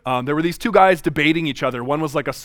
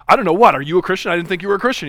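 flustered talk show host, stammering and louder; 3 semitones higher, 5 dB louder than usual. Retold or imitated. Host caught off guard, flustered and stammering. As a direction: play the cornered host fumbling for words. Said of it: "the host was totally flustered".

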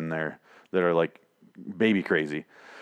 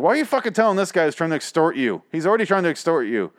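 higher-pitched incredulous scolding; retold exasperated protest, pitched up; exasperated disbelief; 7 semitones higher, faster than usual. Retells own disbelief at the character.

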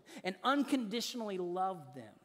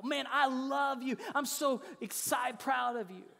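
mildly excited, higher-pitched praise; gushing parent; 5 semitones higher than usual. Acted. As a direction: act out a parent gushing with pride. Acts parent gushing over child's achievement.

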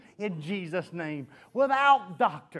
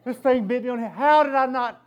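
laughing panic; 5 dB louder than usual. Retold or imitated. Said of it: "I'm thinking".

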